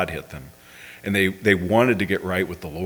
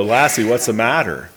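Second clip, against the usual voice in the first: louder, hinted Scottish brogue; half-managed Scottish brogue, pushed out louder; attempted Scottish brogue; 4 dB louder than usual. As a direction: have a rough go at a Scottish brogue. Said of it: "I can't do the brogue".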